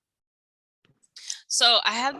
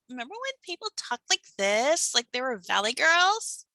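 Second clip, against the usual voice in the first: put-on Valley girl voice; 3 semitones higher than usual. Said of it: "talking like a Valley girl".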